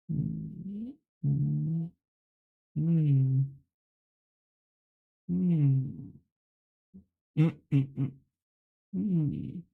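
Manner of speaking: pensive drawn-out "hmm"; mock philosopher's musing hums; pondering hum. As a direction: hum as if posing as a deep thinker. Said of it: "deep thinker".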